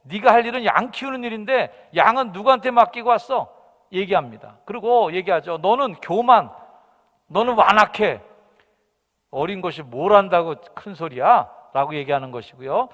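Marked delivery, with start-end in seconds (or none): 0.0-3.5 comedian parody. Acted. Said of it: "코미디언의 말을 좀 패러디해서". 5.6-11.5 berating. Acted. Older brother scolding young David, loud and angry.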